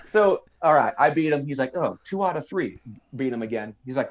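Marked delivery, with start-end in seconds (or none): 1.8-2.8 light mock Southern drawl. Beaten clerk asking recruit for another round, mock Southern drawl. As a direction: ask for a rematch in a put-on Southern drawl. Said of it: "that Southern drawl accent".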